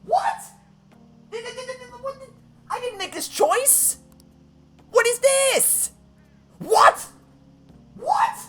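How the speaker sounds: very high, stunned squeal; high-pitched real bewilderment; shocked disbelief. Real, not acted. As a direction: squeak out stammering panic at a terrible mistake. Shocked at unintended game choice.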